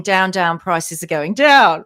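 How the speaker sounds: mock TV commercial slogan; mimicking ad slogan. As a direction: parrot the ad's catchphrase, slow and loud. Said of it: "an advert for a BlackRock-owned supermarket".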